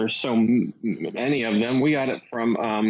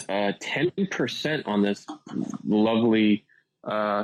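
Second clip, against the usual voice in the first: smooth radio host delivery; radio announcer voice. Acted. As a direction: read it like a morning DJ. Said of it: "You sounded like the radio guy".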